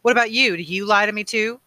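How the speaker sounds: high, loud, angry challenge; almost spit the question at him; spat accusation. A narrator's reading. Boy accusing his mentor, spitting the question. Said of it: "Jonas almost spat the question".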